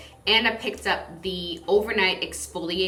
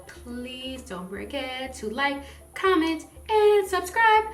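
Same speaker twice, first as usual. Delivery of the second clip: rising higher and louder into playful boops; corny singsong outro; 6 semitones higher, 7 dB louder than usual. Acted. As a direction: bounce it up, sillier each boop. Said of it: "That was really corny".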